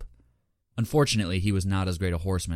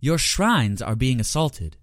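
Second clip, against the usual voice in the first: higher, slow, gloating; cruel smile; 6 semitones higher, 5 dB louder, slower than usual. Acted. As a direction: savor the bad news slowly. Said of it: "with a cruel smile she told him".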